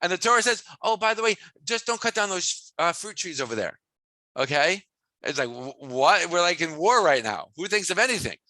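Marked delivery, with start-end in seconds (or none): 0.8-3.8 lightly voiced, offhand instruction; casual afterthought. Torah casually tells fighters to spare fruit trees, offhand afterthought. 5.5-8.4 incredulous soldier, lightly acted; mock incredulous. Soldier in war objects to the fruit tree rule, mock incredulous. Acts out soldier's disbelieving reaction.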